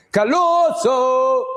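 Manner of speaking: long, high drawn-out call of a name; sing-song call. Real, not acted. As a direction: stretch the name out high like a greeting. Calling out a viewer's name.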